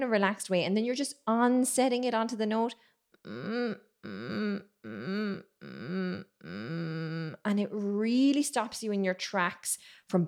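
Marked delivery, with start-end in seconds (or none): 3.3-7.3 creaky fry on a hum; vocal fry. Shown as a demonstration. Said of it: "that's the vocal fry".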